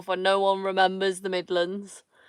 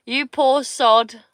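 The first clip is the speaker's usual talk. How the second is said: mock pity; 5 semitones higher, 8 dB louder, slower than usual. Mock pity repeated louder.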